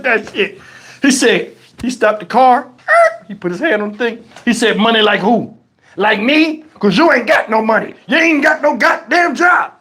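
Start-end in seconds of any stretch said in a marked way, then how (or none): 4.8-9.7 mock indignant dad, building on the last line; acted scolding that rises at the end; ripping on someone. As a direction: tear into the kid, building. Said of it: "he started ripping on me".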